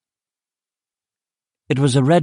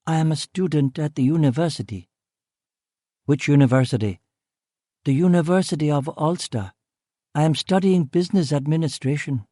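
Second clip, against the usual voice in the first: a lightly voiced, slightly higher student; young African woman; 4 semitones higher than usual. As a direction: Brina answering the policeman, lightly voiced and hesitant. The woman answers Duffy.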